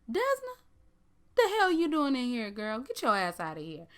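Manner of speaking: high, loud startled call across the room; mock call-out. Spotting Desna in the casino, a high loud call.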